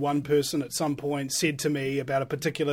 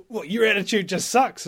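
raised-pitch mock telling-off; imitated scolding teacher; 5 semitones higher, 4 dB louder than usual. Dance teacher criticising his student, mildly scolding imitation. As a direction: lightly play an exasperated instructor. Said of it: "And he's like".

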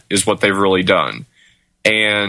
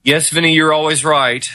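sarcastic; 6 semitones higher than usual. Real, not acted. Teasing reply to host.

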